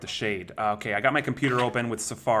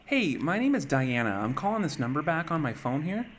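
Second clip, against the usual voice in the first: female voice changer; 4 semitones higher than usual. Acted. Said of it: "let me use female voice".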